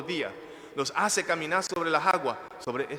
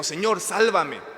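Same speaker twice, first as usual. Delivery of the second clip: raised, slow and higher plea; crying out; 4 semitones higher, 5 dB louder, slower than usual. Acted. Preacher voicing Peter crying to the Lord, raised plea. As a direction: call out for rescue, drawn out. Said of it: "gritó al Señor y le dijo".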